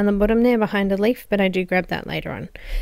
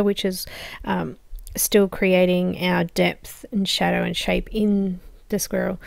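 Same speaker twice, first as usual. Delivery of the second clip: slightly hoarse, losing her voice; slower than usual. Real, not acted. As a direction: talk through a voice that is going. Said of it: "I'm losing my voice today".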